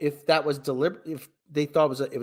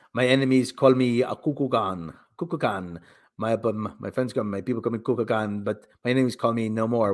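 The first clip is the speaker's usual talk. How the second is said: a half-serious hero proclaiming his name; mock villain boast; 7 semitones lower than usual. Mock reciting the villain's lines.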